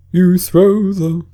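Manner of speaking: high, loud and slow; building eagerness; excited Mock Turtle. Mock Turtle describing the dance to Alice, excited.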